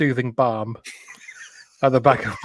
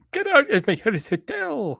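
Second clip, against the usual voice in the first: mock Scottish landlady, higher and slower; bad Scottish accent throwing people out; 8 semitones higher, 4 dB quieter than usual. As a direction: bellow it in a hammed-up Scottish brogue. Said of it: "with a Scottish accent".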